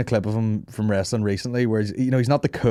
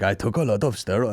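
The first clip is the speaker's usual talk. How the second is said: imitating his English. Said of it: "That's how he talks in English".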